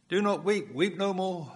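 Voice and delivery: picture him saying it right to her face; imagined Jesus. Acted. Preacher imagining Jesus comforting the widow, lightly voiced.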